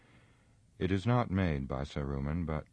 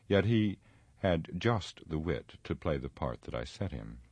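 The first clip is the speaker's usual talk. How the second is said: Saruman, scornful wizard. Acted. Saruman declares himself to the captive Gandalf, imperious. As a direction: pronounce it grandly and deliberately.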